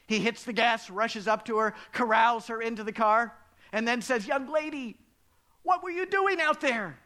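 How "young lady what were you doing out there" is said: higher, louder stern dad calling her in; a worried father scolding his daughter. Retold or imitated. Father pulling his daughter from the storm, stern and louder.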